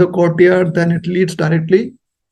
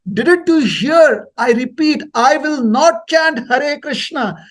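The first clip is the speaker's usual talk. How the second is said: very slow, higher, word by word; slow repeat; 6 semitones higher, slower than usual. Retold or imitated. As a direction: repeat it as if to a child. Repeating slowly to a foreigner.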